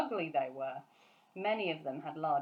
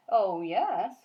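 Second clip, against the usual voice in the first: louder firm giant reply; cried; 8 dB louder than usual. Acted. Giant replying to Sophie, firm cry. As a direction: answer back with a firm cry. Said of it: "cried the B F G".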